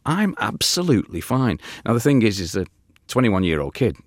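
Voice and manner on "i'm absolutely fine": high, light Ian voice; chirpy reassurance as Ian; imitating Ian. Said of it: "And he'd go".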